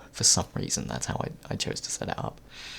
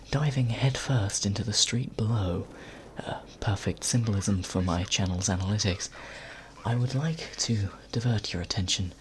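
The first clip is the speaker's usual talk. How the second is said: nature documentary narrator. Acted. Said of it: "now I'm doing it like a nature documentary".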